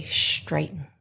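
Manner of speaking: straighten said as shtraighten; shtr sound. Shown as a demonstration. Teacher mimics the kids saying straighten. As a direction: put a sh into straighten. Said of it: "is the S T R".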